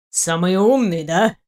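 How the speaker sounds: mildly snide challenge; understated sarcasm; sarcastic jibe. A narrator's reading. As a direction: needle him with a mocking question. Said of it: "съязвил Авзурак".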